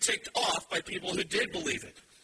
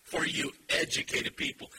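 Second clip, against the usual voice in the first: mock condescending; 5 semitones higher than usual. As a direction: spell it out for the educated. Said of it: "the Greek here is very emphatic".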